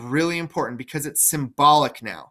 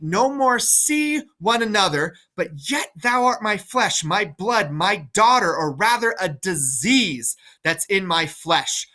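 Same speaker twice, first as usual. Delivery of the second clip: put-on higher, bitter old king's curse; Lear cursing Goneril; 4 semitones higher than usual. Lear to daughter Goneril, higher bitter cursing.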